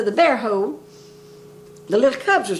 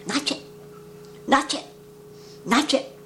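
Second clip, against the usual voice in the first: guinea voice; 3 semitones higher, 7 dB quieter than usual. Retold or imitated. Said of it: "The old guinea would walk around and say".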